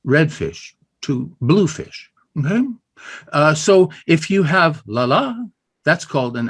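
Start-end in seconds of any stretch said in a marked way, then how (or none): 0.1-2.1 Redfish to bluefish slowly, beats on red and blue; slow deliberate rhythm; slow stressed demo. Shown as a demonstration.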